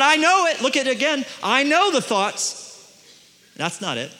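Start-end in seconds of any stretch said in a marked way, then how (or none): 0.0-0.6 KNOW hit higher in "I know it"; emphatic. Acted. God assuring the listeners, emphatic stress on KNOW. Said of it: "is emphatic". 1.4-2.8 KNOW drawn out high and slow; emphatic. Acted. Preacher rereading God's words, emphatic stress on KNOW. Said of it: "is emphatic".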